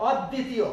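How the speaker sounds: অদ্বিতীয় as "awd-ditiyo", open onset and double d; corrected open vowel. Shown as a demonstration. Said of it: "অদ্বিতীয় হবে না".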